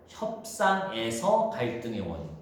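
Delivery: slow, spaced-out reading of "협상에서 갈등의 원인"; deliberate emphasis. Shown as a demonstration. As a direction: read "협상에서 갈등의 원인" slowly, setting "협상에서" apart. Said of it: "정확히 이렇게 써 있어".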